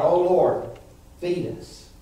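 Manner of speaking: acted plea to God; mock cry for food, rising on the repeats. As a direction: plead like hungry people crying to heaven. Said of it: "they cried out to God".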